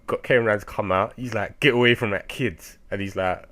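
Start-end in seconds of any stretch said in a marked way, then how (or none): 1.6-2.6 sharp shout at the enemy. Retold or imitated. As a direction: shout it as a warning. Character retold angrily confronting foe.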